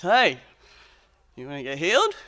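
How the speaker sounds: casual, offhand Jesus; pub-style Jesus. Acted. Jesus to the sick man at the pool, casually. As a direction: say it like a mate at the pub. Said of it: "in a way we might tell a story at the pub".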